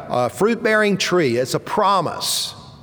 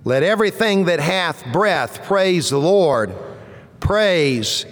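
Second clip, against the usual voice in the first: scripture reading. Acted. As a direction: read each line as measured proclamation.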